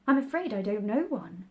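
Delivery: alarmed. Acted. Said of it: "rather alarmed at the proposal".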